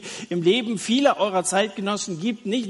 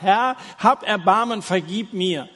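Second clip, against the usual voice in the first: sinner's plea; 6 dB louder than usual. Acted. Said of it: "und sagt".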